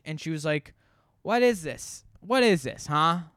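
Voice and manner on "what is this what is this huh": higher-pitched, indignant mock challenge; put-on indignation, pitched up; imitated powerful person. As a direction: act out a self-important customer demanding answers. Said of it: "speaking like a, like a powerful per".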